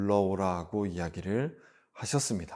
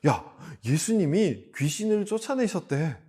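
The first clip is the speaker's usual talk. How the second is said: excited gossip, higher pitch; 소문 전하기; 5 semitones higher than usual. Acted. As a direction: pass on amazing news to a friend. Acting out townspeople passing a rumour. (들뜬 목소리로 소문을 전하며)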